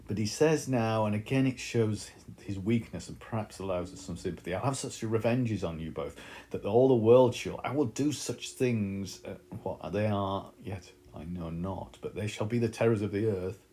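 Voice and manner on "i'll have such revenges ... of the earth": mildly hammed-up vengeful threat, louder at first; raging at first, faltering midway; empty threats. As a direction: threaten revenge with nothing to back it up. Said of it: "and then empty threats".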